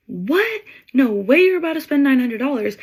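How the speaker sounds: imitating a shocked, angry mother, pitched high; freaked-out mom. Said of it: "The mom literally freaked out".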